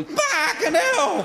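high, drawn-out cry of shock; shocked yelp. Acted. Patient yelps at the cold funnel, high shocked cry.

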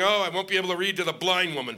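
mock self-pitying churchgoer; mock Christian whine. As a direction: whine like a put-upon do-gooder. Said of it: "Even the Christian was going".

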